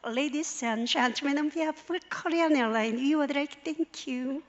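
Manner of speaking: very slow, drawn-out airline announcement in English; lightly done cabin crew voice; flight attendant announcement. Retold or imitated. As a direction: imitate a stewardess reading the in-flight welcome. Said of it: "어떻게 하냐면 이렇게 하죠".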